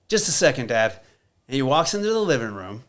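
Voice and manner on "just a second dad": son's voice. Retold or imitated. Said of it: "He goes".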